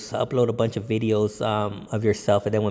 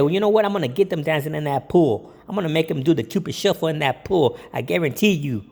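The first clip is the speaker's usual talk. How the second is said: confident pitch; 4 semitones higher than usual. Retold or imitated. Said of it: "And then you say".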